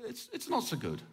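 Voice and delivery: soothing inner voice. Retold or imitated. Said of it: "kind of a voice is going".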